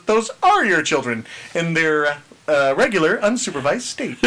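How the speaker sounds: lightly voiced smug dad; a hint of smug Richard; Richard's voice. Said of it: "a new favorite voice of yours".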